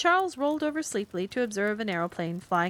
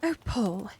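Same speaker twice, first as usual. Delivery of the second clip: impatient. Acted. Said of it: "exclaimed Carrie impatiently".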